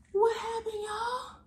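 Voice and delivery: loud high worried cry; alarmed. Acted. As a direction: sound shocked for the kids. Reacting to the book.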